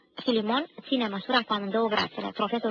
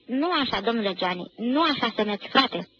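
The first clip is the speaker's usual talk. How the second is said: desperate director. Acted. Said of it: "se plesnește pe frunte desperat".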